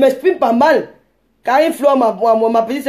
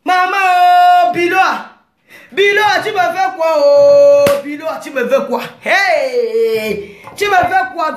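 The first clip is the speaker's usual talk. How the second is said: exclaiming; 2 semitones higher, slower than usual. Real, not acted. Vlogger calls out to Biloa about what she's doing, exclaiming. Mock lament calling out to Biloa.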